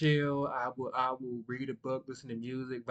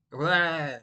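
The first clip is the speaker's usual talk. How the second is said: louder blurted "blah"; excited blah; 3 semitones higher, 7 dB louder than usual. Shown as a demonstration. Speaker showing how they get excited, excited blah. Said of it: "like, I will get excited".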